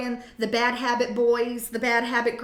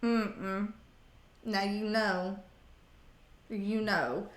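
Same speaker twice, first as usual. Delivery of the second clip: quiet, low scolding from the fridge; Doctor Now impression; 4 semitones lower, 7 dB quieter, much slower than usual. Doctor on the fridge magnet softly scolding the snacker, hushed accent. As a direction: softly tut at the snacker with a foreign lilt. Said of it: "Doctor Now sitting here being like".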